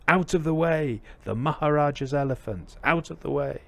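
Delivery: high, insistent road-clearing call; shouting mahout. Acted. Mahout's third warning to the boy, shouting. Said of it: "And a third time".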